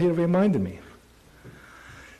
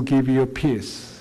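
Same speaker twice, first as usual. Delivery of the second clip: tender Jesus. Acted. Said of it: "Jesus saying".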